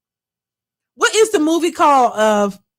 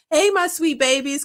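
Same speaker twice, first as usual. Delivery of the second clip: imitating Monique; 5 semitones higher than usual. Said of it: "I just have Monique in my head".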